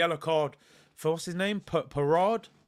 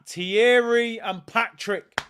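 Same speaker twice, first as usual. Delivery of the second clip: excited; 3 semitones higher, 6 dB louder, much slower than usual. Real, not acted. Fan hails returning legends.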